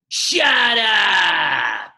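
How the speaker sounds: sudden loud bark of shut up; deadpan shout. Retold or imitated. Adam Sandler yelling at silent kids, loud shout. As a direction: blurt it at the kids out of nowhere. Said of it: "he goes".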